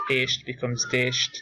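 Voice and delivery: "Esht" then "desht" said slowly, the added D made clear; slow teacher's contrast of "Esht" and "desht". Shown as a demonstration. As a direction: draw out "desht" so the new D is heard. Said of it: "as in esht".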